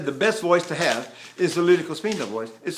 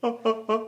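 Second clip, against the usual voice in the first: suspended breath attacks; 5 semitones higher, 3 dB quieter, much faster than usual. Shown as a demonstration. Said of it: "So I breathe and go".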